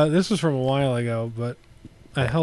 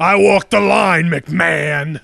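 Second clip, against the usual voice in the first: slow, louder country croon; country singer's voice; 4 dB louder, slower than usual. Pretend. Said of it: "Try a country singer now".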